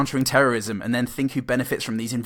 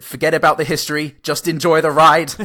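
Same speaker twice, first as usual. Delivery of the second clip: mock advert voice; 5 semitones higher, 7 dB louder than usual. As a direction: sell it like a trailer. Reads review in mock voice.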